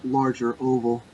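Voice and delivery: close-mic breathy tutorial voice. Pretend. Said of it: "have that breathy voice and just be like".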